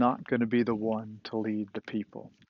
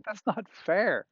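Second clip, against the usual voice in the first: high, plaintive protest; a pleading cry of unfairness; 8 semitones higher than usual. Acted. Listeners objecting on behalf of Moses, crying out plaintively. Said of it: "you're sort of crying out".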